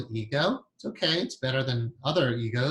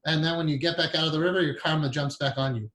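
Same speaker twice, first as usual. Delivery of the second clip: put-on Indian accent; 3 semitones higher than usual. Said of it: "he was in the Indian accent".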